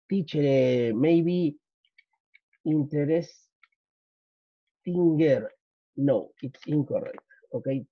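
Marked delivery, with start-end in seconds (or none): 0.1-5.5 imitating a student. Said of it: "no me vayan a poner".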